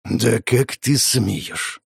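slow menacing growl. Acted. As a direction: drag each word out in threat. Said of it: "прорычал он".

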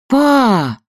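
high, loud shocked cry of Papa; loud gasp. A narrator's reading. Daughter gasps loudly at her father's rudeness. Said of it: "громко ахнула Катя".

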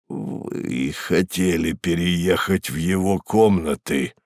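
slow, low, nasal and falsely heartfelt; nasal, oozing fake sincerity. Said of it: "как можно задушевнее прогнусил".

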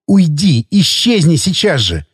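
a touch of a furious hiss, slowing on the second phrase; angry hiss. A narrator's reading. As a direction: push him away with suppressed anger. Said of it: "её гневного шипения".

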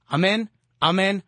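steady rhythmic recited prayer. Acted. Radio preacher leading listeners in prayer, recited cadence. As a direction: pray it aloud with the faithful, measured. Leads listeners in Hail Mary.

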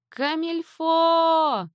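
long, high frightened call of a name; frightened scream. A narrator's reading. Mother frightened, calling her lost daughter, high drawn scream. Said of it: "закричала перепуганная мама".

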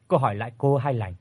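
plain reading voice

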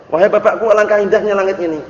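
a daughter marvelling at the sky, mildly played; teacher lightly voicing the daughter's wonder at the sky; what the daughter meant. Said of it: "pengennya anaknya itu ngomongnya".

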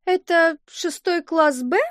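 the fake teacher's uncertain question; puzzled teacher. A narrator's reading. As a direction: ask it slowly as if unsure where you are. Fake teacher asks oddly.

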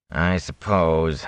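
drawn-out, hesitant; slowly. Acted. Watchman eyeing the gold, slow hesitant voice. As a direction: stretch it while weighing the bribe. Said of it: "the watchman said slowly".

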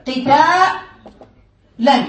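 قتالا stretched extremely slowly, every letter held; slow spelled-out demo. Shown as a demonstration. Teacher showing students the letters of the masdar, drawn out. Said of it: "انتبه معي".

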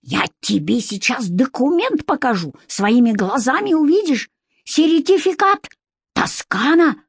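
put-on high excited accented voice; ultrasonic squeak. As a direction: squeal it out in agitation. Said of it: "голос вновь перешёл на ультразвук".

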